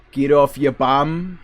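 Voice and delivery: slow, thick Boston delivery; Boston accent. Acted. Streamer giving examples of his accent, Boston accent. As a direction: drop into hometown Boston talk. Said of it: "I start talking like that".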